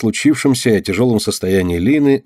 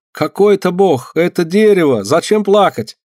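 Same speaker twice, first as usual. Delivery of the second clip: indignant helper; 9 semitones higher, 4 dB louder than usual. Acted. Malaika scolds the icon.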